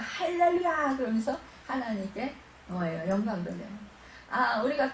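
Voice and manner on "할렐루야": high, drawn-out hallelujah; imitated glad exclamation; acted joyful praise. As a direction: lift it up in praise, lightly acted. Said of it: "기쁜 일 있으면".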